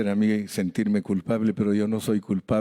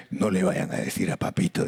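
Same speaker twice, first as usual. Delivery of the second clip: granddaughter quote; 4 semitones lower than usual. Retold or imitated. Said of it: "Así dice mi nieta chiquita".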